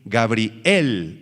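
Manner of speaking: "Gabriel" drawn out with the accent on the E; stress on final E. Shown as a demonstration. Teacher showing the Hebrew name, "Gabriel" stressed on the E. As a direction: lean slowly on the last syllable of "Gabriel". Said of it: "con acento en la E".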